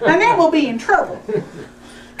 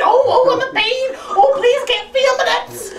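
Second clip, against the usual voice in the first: mock pained whimper; 4 semitones higher than usual. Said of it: "with the screaming".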